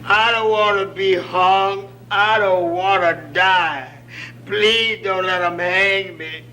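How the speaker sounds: slow, pleading mock sob; mock crying prisoner. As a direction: beg for his life in a light whimper. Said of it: "sitting over in the corner crying".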